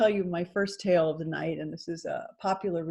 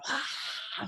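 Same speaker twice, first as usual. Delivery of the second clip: lion pose breath; 2 semitones higher, 7 dB quieter than usual. Shown as a demonstration.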